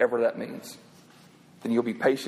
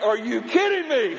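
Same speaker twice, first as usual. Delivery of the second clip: mock disbelief; 8 semitones higher, slower than usual. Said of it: "And I'm like".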